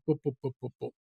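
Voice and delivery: quick, soft string of boops; soft boops ticking items off a list; light, low booping; booping sounds. Acted. Imitated noise skimming down a list.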